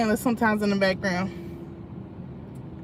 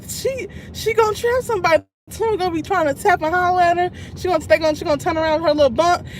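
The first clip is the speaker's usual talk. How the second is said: mock gossip; 5 semitones higher, faster than usual. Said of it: "I was like".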